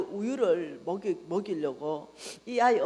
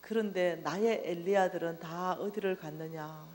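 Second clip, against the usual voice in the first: mournful question; 3 semitones lower, 4 dB quieter than usual. Retold or imitated. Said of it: "연이어서 하신 말씀이".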